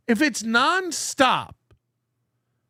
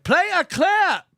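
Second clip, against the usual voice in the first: slow, raised barking command; mock bossy order; 7 semitones higher, slower than usual. Mocking the host who orders a clip, mock bark. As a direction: bark it like a boss demanding a clip. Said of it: "He does this thing where it's like".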